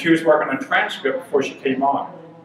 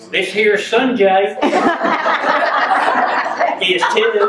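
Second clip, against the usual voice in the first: mock Southern drawl; 3 semitones higher, slower than usual. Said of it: "Alabama going".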